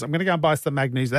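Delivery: fast, lightly put-on nagging wife; mock wife voice. Host lightly imitating his wife buying magnesium, fast and mocking. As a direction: rattle it off as a lightly mocked wife. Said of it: "That's not how she talks, by the way, but that's just me".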